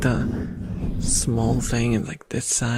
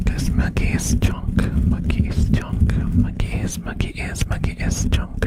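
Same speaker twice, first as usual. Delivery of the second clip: whispering. Pretend. Whispered jab at rat plush.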